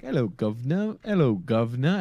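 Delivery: swooping, singsong hail; passer-by greeting. Acted. Imagined passers-by hailing the governor, playful singsong greeting. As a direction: hail them playfully, pitch rising on each greeting. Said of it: "it was like".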